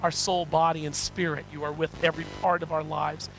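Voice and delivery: earnest, measured pastoral prayer; congregational prayer. Real, not acted. Preacher thanking God for his word, congregational prayer. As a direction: lead the congregation in sincere prayer.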